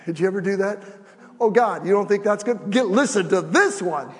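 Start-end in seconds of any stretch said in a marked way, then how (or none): 1.4-4.1 loud, insistent challenge to God; boasting to God. Acted. Preacher mimics someone giving God excuses, loud and boasting. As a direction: push it out loud, topping your own excuse.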